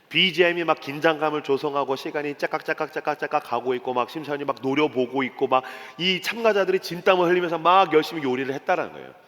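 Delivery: normal talking voice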